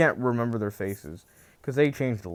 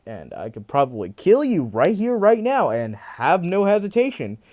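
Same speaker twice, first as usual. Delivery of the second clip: louder, furious spiteful speech rising to yells; angry rant; 4 dB louder than usual. Retold or imitated. Deku rejects his birth parents, louder angry ranting. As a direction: tear into them like a betrayed son.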